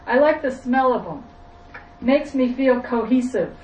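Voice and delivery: mild put-on Southern voice; southern accent. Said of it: "I have to put on a southern accent".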